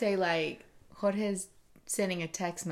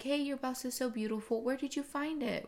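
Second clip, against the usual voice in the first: gushing compliment; 5 semitones higher than usual. Acted. Imagined compliment to a stranger.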